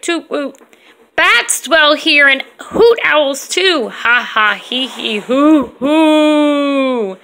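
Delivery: slow, playful read with sound effects; poem read aloud. Acted. Mom reading a house poem to her daughters, playfully. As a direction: make the whooshes and hoots fun.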